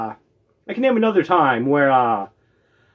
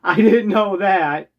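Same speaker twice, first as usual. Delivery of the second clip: retold shock; 2 semitones higher, much slower than usual. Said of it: "the expression on my face".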